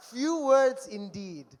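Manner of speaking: deadpan punchline. Real, not acted. Deadpan punchline after mocking text.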